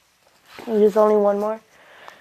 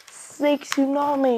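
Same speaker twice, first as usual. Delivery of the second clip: slow, higher-pitched move name, not shouted; acted attack call; 4 semitones higher, slower than usual. Orochimaru casts his attack, slow higher-pitched acted call.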